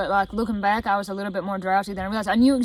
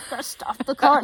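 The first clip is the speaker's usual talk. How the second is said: laughing imitation; 3 semitones higher than usual. Sister imitating her agitated mumble.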